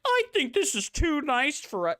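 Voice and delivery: high mocking meek voice; mocking quote. Streamer mocking Heaven's post, high meek mockery. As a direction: mimic a meek, self-doubting player. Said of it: "players around is like".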